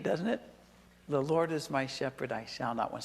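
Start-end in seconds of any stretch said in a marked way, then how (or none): 1.1-3.0 softer and lower, savoring each word. Shown as a demonstration. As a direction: let the verse sink in quietly. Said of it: "It just feels good saying it".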